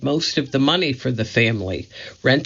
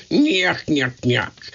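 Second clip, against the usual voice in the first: nyuk nyuk; 3 semitones higher, slower than usual. Acted. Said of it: "Curly said".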